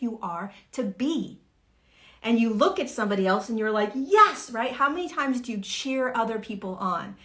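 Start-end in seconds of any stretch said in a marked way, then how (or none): 3.9-4.5 a much higher, louder whoop of yes; cheering yes. Retold or imitated. Friend cheers on someone struggling, high excited whoop. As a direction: cheer them on like a fan.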